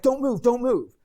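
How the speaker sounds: high, loud imitated alarm; retelling the frantic rescuers; mock frantic shout to freeze; panicked warning. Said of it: "They're like".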